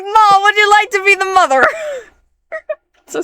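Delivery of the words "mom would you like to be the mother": put-on little girl voice. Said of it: "the little girl".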